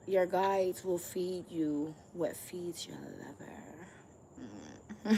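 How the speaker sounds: slow breathy whisper of a secret. Acted. To the viewer, sharing a juicy secret: whisper. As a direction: lean in and whisper it slowly.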